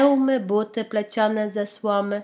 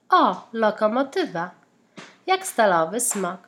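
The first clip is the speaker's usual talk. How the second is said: mildly excited cry at the engine; a touch of wonder, called out; very curious exclamation. Acted. Led marvels at the locomotive, mildly excited call. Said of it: "zawołał ogromnie zaciekawiony Led".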